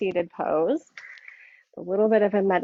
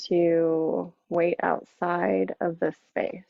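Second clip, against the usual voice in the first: guided meditation. Acted. Yoga teacher settling the class into seated practice, guided meditation. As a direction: ease them inward, unhurried, letting each phrase settle.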